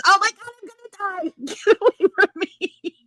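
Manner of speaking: high, laughing mock dread; mock panic. Friend fleeing a sick caller, mock panic through laughter. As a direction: squeal it through laughter, hamming up fear of catching it. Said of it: "All I can think of is".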